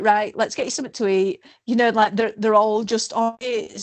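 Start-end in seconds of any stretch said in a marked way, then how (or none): 0.0-1.4 brisk and practical. Retold or imitated. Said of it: "they're just like".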